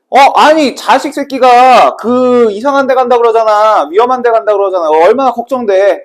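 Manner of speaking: mock parental alarm; acted worried parent. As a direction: fret aloud like an alarmed parent. Voices worried parents of Ihwa.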